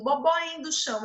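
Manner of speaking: "Bobó indo chão" with consonants and syllables dropped; toddler mispronunciation. Shown as a demonstration. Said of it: "ele fala assim".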